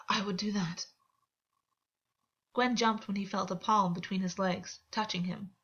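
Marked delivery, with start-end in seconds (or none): 0.1-0.9 breathy whispered reply. Acted. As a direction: barely voice it, close and private. Whispered consent in intimate scene.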